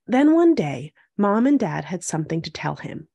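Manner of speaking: measured storybook read-aloud; picture-book narration. A narrator's reading. Host reading a picture book to young viewers, storytelling. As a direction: read it clearly to young children.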